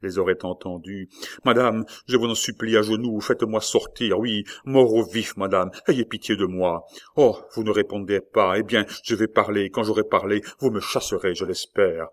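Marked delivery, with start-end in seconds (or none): 1.4-12.1 louder, urgent begging; desperate pleading. Acted. La Mole begging the queen to let him out. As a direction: plead on your knees, pressing.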